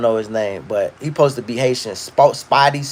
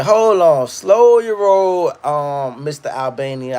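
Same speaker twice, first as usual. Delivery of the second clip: mock scolding; slower than usual. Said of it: "And I'm thinking".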